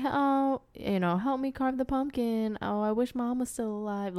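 lightly put-on little boy; mocking the son. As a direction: imitate a dad mimicking his whiny child. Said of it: "He's, like, imitating him".

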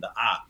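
A said as an open "ah"; feminine A sound. Shown as a demonstration. Teacher showing the feminine ending, A as open "ah". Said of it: "feminine A sound at the end".

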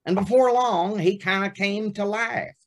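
pinched Texas voice. Retold or imitated. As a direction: squeeze the voice up, Texas twang. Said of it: "pinched the voice ... Texas accent".

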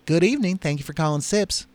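lightly voiced Mississippi bartender; Mississippi accent. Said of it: "how's my Mississippi accent".

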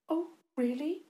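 high, innocent-sounding question; sweet. A narrator's reading. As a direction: feign sweet surprise with a rising lilt. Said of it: "She spoke sweetly".

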